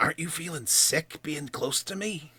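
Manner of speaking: whispered voice. Voicing a character who leans in close to a stranger: whispering in character. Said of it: "leans in and whispers".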